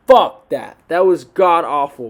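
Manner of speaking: loud, disgusted outburst; angry outburst. Real, not acted. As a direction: blurt it out in disgust. Ranting about a bad fight.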